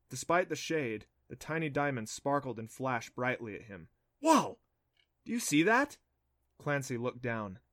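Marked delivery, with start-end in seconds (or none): 4.2-6.0 high excited gasp of wonder; amazed. Acted. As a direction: marvel at the glow. Adam sees coin sparkle.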